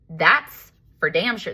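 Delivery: slow, drawn-out sassy retort. Retold or imitated. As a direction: stretch it out with sass. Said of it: "This is how sassy I was".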